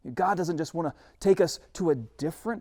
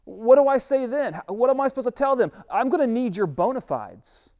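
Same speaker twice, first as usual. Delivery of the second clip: anxious Moses; 7 semitones higher, 6 dB louder than usual. Acted. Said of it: "And then he says".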